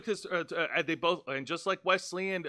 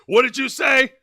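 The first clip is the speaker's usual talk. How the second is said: mock confrontation; 6 semitones higher, 10 dB louder than usual. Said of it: "He's like".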